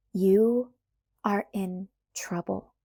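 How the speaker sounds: slow, every word "You are in trouble" leaned on; each word stressed. Acted. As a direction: space out and hit each word. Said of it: "I said slowly, emphasizing each word".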